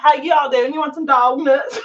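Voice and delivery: put-on laughing Southern accent. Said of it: "can't even say with a straight face".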